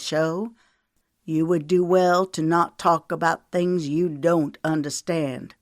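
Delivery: mocking Southern drawl, lightly voiced; a hint of a sneering Southern belle; exaggerated southern drawl. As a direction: taunt him with syrupy Southern venom. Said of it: "put on an exaggerated southern drawl".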